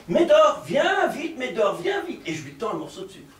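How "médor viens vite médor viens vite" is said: calling the dog. Retold or imitated. The professor calls the stray dog, a mild shout. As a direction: call the stray dog over, then soften. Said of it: "Alors je lui crie".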